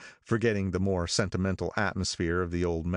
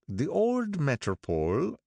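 put-on higher, slow brooding old man's voice; gloomy, slow character voice, pitched up; 8 semitones higher than usual. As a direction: brood over the name like a lost past. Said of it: "brooded Mister Wolfsheim gloomily".

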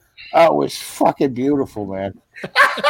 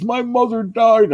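higher, slow, put-on wounded voice; mock grieving bouncer; 10 semitones higher, slower than usual. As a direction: play the hurt big guy, slowed right down. Bouncer's excuse for fighting.

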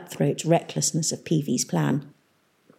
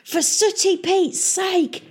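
high, slow exasperated pirate exclamation; Peavy's angry shout; 13 semitones higher, slower than usual. Acted. Pirate mayor seeing his suburb bombed, angry shout. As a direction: curse it out like a furious pirate. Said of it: "shouted Peavy".

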